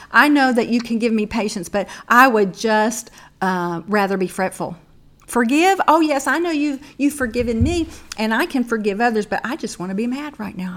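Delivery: loud, petulant excuses; mock stubborn whine. Mocking her own stubbornness.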